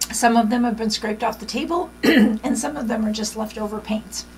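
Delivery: hoarse, fading voice; losing voice. Real, not acted. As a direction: talk through a losing voice. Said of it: "Sorry, I'm losing my voice".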